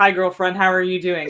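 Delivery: deadpan, utterly flat, affectless delivery with no life. Speaker quotes a badly delivered line they'll now greet friends with, mock flat, affectless delivery. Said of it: "in the most flattest affect possible".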